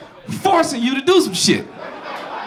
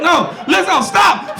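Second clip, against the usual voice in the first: higher, half-yelled plea; mock protest; 4 semitones higher, slower than usual. Charmed man begging a singer to quit the flute, mock yell. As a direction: beg her to stop, half laughing. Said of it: "and you get up like".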